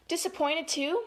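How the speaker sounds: put-on lilting, emphatic read-aloud for children; story time delivery; picture-book reading. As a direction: read each feeling word out clearly, with lift.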